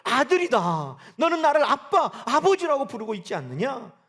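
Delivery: booming voice of God. Pretend. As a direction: speak as God, calling his child. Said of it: "하나님은 우리에게 뭐라고 말씀한다는".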